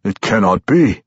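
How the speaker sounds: mouthed disbelief; gasped surprise. A narrator's reading. Tosin learning whose sword he carries, gasping in surprise. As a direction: breathe it out in astonishment. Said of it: "Tosin's turn to gasp in surprise".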